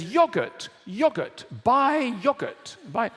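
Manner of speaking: high, hammed-up ad announcer chanting the product; mock advert voice. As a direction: sell it like a cheesy TV ad. Mock advert voice selling yogurt.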